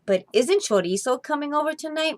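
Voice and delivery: worried little mouse asking; a hint of mouse squeak; mommy mouse. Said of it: "Mommy Mouse asked".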